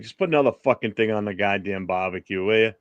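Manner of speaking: put-on blunt New England accent; casual, sweary Northeastern accent. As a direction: say it like a Northeast American local. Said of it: "Here in Northeast, it'd be like".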